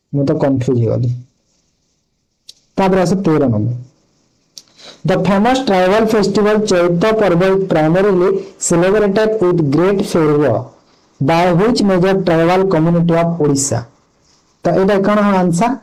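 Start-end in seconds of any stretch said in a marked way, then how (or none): 5.1-13.8 slow, careful question read-out; reading a quiz question. Acted. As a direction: read each word out deliberately. Reads quiz question aloud slowly. (ଧୀରେ ଧୀରେ ପ୍ରଶ୍ନ ପଢ଼ିବା)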